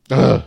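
loud, short "ugh" of disgust; exasperated grunt after a long pause; fed-up groan. Real, not acted. Breaks off rant in disgust.

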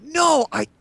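put-on very high, slow indignant child voice; Mini Wheat. Young son setting gamers straight, drawn-out childish protest. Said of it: "He's like".

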